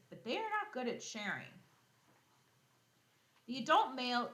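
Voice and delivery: bright, lively read-aloud voice; storybook reading for kids; reading to children. Acted. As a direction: read the book out to the class with energy. Reading the lion book aloud.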